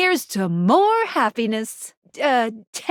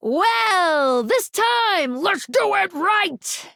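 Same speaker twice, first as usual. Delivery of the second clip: rallying cheer; 5 semitones higher, much slower than usual. Acted. Rallying the player for a retry.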